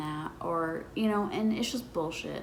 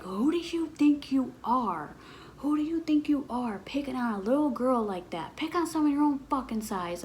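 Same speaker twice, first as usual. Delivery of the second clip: pissed dad; 5 semitones higher than usual. Retold or imitated. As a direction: chew out the bully for picking on a little girl. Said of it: "Like, he was pissed".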